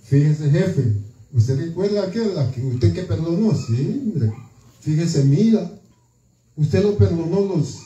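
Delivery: tattling to the boss in a low voice; servants telling the king. Acted. Servants report to the lord. (sirvientes acusando ante el rey con voz grave)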